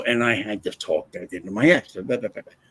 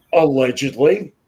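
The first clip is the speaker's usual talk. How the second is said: allegedly dropped in dry as a mock legal hedge; deadpan disclaimer after an insult; ironic hedge; 2 semitones higher, 5 dB louder than usual. Shown as a demonstration. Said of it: "This bitch".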